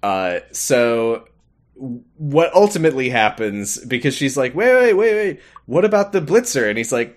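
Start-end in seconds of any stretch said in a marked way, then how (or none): 4.5-6.7 high, hurried mock objection; acted flustered interruption, pitched up; urgent protest. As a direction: halt someone with a high-pitched wait. Retelling Clara's protest.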